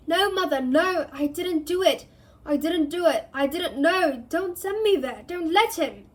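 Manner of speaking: high, loud panicked screams; screaming in terror. Acted. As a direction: scream as the guards close in. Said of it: "The boy began to scream".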